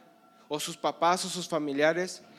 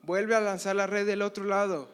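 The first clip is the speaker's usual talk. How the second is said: loud, high call from across the water; the Lord calling to Pedro from the shore; calling from afar; 5 semitones higher, 7 dB louder than usual. Acted. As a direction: shout it out over the lake. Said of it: "escuchan una voz a lo lejos".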